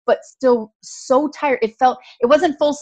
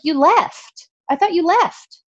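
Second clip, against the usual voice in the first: confused roommate; 8 semitones higher, 3 dB louder, slower than usual. Retold or imitated. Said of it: "She was, like, so confused".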